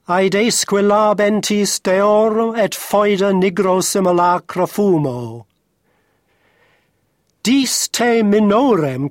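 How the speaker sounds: measured, rhythmic reading of a Latin ode; Latin verse recitation. Shown as a demonstration. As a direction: recite Latin poetry, letting meter and word accent intertwine. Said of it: "reading the first part of Ode three point six for us".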